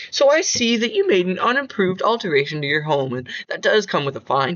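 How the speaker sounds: flat, even, toneless delivery; monotone voice. Acted. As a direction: read it like an emotionless clerk. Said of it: "with a very monotone voice".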